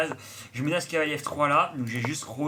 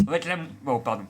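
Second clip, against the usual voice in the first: noisy cheap usb mic sound; talking through a cheap usb mic. Real, not acted. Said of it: "pardon pour le micro".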